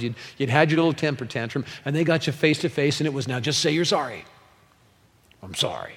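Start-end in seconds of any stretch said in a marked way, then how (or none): 3.3-4.2 lightly voiced scolding parent; a hint of a parent demanding an apology; mild mock parental order; stern parent. Parent scolding child in story. 5.4-5.9 put-on low, grudging child's sorry; mock half-hearted apology, pitched down; mumble-free but reluctant, acting the unrepentant kid; insincere apology. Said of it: "say it like you mean it".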